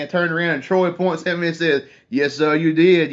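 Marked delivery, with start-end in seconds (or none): 2.1-3.1 a light Cajun drawl on a slow, louder quote; slowly mimicking Troy's Cajun greeting; Cajun accent. Reality TV star answering fan in Cajun accent. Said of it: "you know, in that accent".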